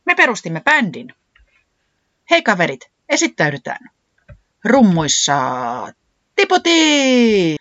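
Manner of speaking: band leader's loud introduction, last name stretched high; excited announcing. A narrator's reading. Puuhis introduces the new band's drummer, announcing excitedly. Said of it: "Puuhis huudahti".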